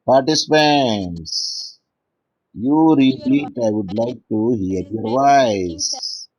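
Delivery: slow, drawn-out appeal to the class; slow prompting. Real, not acted. Teacher prompting silent participants to read, slow and drawn-out. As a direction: stretch the words out for listeners online.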